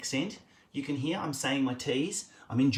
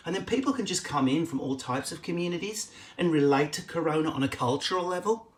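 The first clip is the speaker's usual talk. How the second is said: lightly put-on Melbourne Australian accent; Melburnian accent. Shown as a demonstration. Comic showing how Melbourne people culturally process the coronavirus, in a Melburnian accent. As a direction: do an arty Melburnian, pitch lifting at phrase ends. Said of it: "We could have a Melburnian accent".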